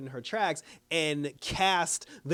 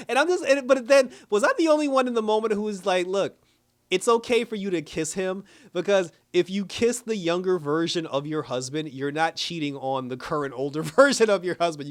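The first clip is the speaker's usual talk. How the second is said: raised, animated urging; excited rant; 4 semitones higher, 6 dB louder than usual. Real, not acted. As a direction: loudly egg them on to kiss. Excited rant, loud and high.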